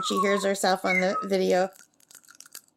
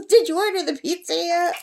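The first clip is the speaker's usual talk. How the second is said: lightly voiced parrot, a bit higher; a hint of the bird calling out; mild high-pitched parrot mimicry; parrot imitation; 6 semitones higher than usual. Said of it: "she said it clear as a bell".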